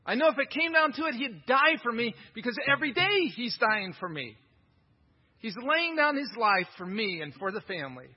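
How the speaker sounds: a hint of a devoted wife gushing; Christian wife. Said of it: "a Christian woman who says this".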